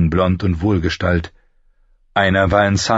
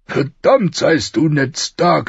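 high, raised royal grumble; exasperated curse; 11 semitones higher, 3 dB louder, slower than usual. A narrator's reading. King cursing Ned after drinking, exasperated. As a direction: curse your old friend with raised voice.

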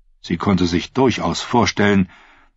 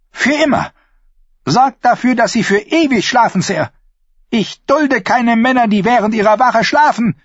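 high, loud death order; queen ordering the guards' death, loud and high; furious command; 4 dB louder than usual. Acted. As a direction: pronounce the sentence in rage.

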